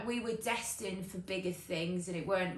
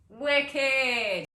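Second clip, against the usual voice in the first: louder, higher, drawn-out cheer; exuberant exclamation; 6 semitones higher, 11 dB louder than usual. Acted. Celebrating free dental coverage, exuberant drawn-out cheer. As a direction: stretch it out in loud delight.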